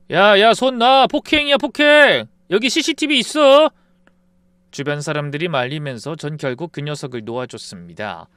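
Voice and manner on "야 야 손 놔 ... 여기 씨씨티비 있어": very high and loud alarm; panicked yell. Acted. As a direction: shriek for him to let go. Friend being grabbed, panics.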